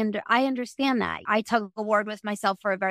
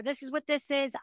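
blunt verdict; 5 semitones higher, 5 dB quieter than usual. Pretend. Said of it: "I'm not gonna be like".

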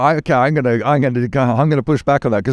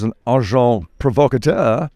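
French accent. Shown as a demonstration. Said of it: "excuse the French accent".

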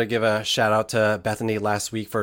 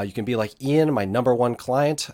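sarcastic; 2 semitones higher than usual. Pretend. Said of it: "the sarcasm in the voice".

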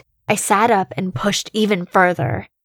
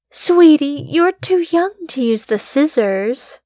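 higher, sweet motherly voice; imitating her mother; 8 semitones higher, 3 dB louder than usual. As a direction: talk down to him like his mother, sweet but firm. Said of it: "tried to sound like my mother".

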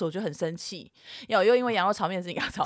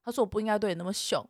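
lower, softer contrite voice; soft apology; 3 semitones lower, 7 dB quieter than usual. Retold or imitated. Boyfriend apologising after a smoke, soft and contrite. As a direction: imitate a partner making up gently.

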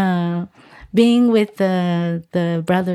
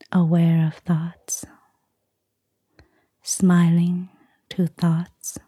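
guided meditation. Acted. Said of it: "give us a short guided meditation".

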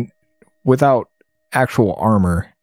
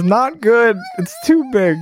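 laughing while reading; 11 semitones higher than usual. Real, not acted. Reading character's panicked line.

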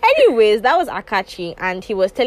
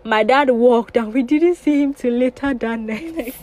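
measured read-aloud with lively emphasis; reading a story aloud. Acted. Podcast host reading out a listener's family story, read-aloud storytelling. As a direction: tell it clearly, phrase by phrase.

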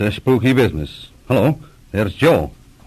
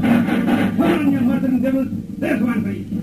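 much higher, taunting the attackers; defiant battle cry. Acted. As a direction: yell defiance at the enemy. Fighting off the attackers.

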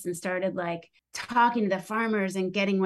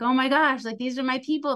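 excited; 5 semitones higher, 3 dB louder than usual. Retold or imitated. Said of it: "I'm like".

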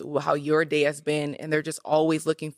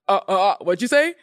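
mocking a stutter; 3 dB louder than usual. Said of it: "like, mocking you".

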